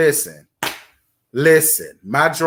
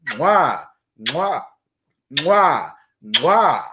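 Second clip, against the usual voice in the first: blown kisses; 2 semitones lower, much slower than usual. Real, not acted. Blowing kisses to a donor.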